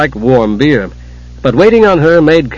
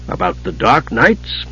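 solemnly; 3 dB quieter than usual. Acted. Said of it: "Caramon said solemnly".

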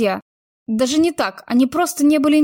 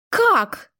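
exclaimed; 8 semitones higher than usual. A narrator's reading. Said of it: "не выдержав, вскричала она".

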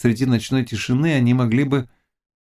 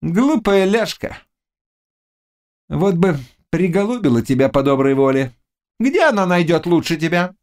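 wheedling witch; 10 semitones higher than usual. Acted. Witch flattering the rejected Cossack, high and wheedling. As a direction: coax him in a high pitch.

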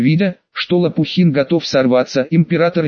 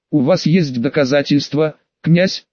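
ingratiating. Acted. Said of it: "вкратчиво спросил император".

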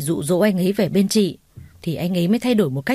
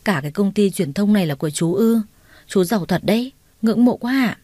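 mild gushing awe. Acted. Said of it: "trầm trồ".

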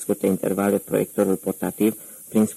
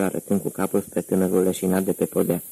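usual speaking voice

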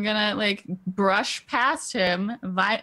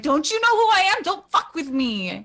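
yelling; 9 semitones higher than usual. Acted. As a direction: yell it to the whole room. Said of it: "And I, I yell out".

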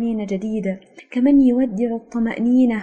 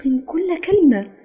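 sincerely; 7 semitones higher, 4 dB louder, slower than usual. A narrator's reading. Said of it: "فقلت بصدق".

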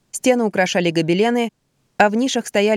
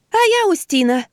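high strained put-on voice; a man faking a girl, gruffly; gruffly cutting in; 12 semitones higher, 3 dB louder than usual. A narrator's reading. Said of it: "грубовато вмешалась".

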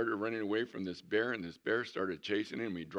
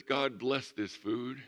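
bear saying grace; 5 semitones higher, 4 dB louder, slower than usual. Acted. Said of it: "and says".

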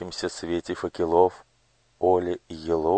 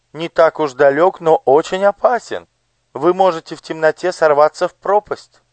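high, bright-voiced curious lady; noble lady; 11 semitones higher, 8 dB louder than usual. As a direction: voice the gracious lady on horseback. (знатная дама, высоким голосом)

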